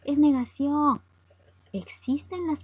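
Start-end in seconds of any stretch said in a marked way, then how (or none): 0.0-1.0 lightly voiced student objection, higher and louder; a hint of a puzzled student; questioning student. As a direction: raise a mild doubt to the teacher. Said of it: "me vas a preguntar seguramente".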